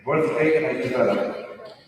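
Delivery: slow recap in an American accent; both words in neutral American English. Shown as a demonstration. Coach repeating both example words, neutral American accent. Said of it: "American or someone with a neutral English accent".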